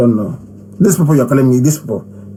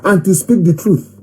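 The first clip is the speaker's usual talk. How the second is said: political preacher rallying the faithful; impassioned oratory; 4 semitones higher than usual. Acted. Leader reminds followers of their sworn job, exhorting. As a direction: drive the creed home to your followers.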